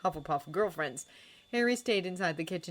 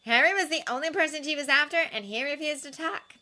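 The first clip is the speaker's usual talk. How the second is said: consoling; 10 semitones higher, 5 dB louder than usual. A narrator's reading. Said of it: "said Ginny consolingly".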